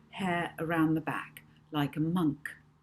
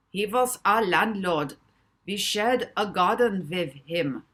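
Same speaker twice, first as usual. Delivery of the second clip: put-on German accent; 3 semitones higher, 7 dB louder than usual. A narrator's reading. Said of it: "his adopted German accent".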